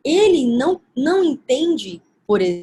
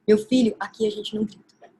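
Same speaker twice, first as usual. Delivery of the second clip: calm, said once; 2 semitones lower than usual. Shown as a demonstration. Mother to her son at Casa Sula, calmly saying it once. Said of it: "mas é uma vez".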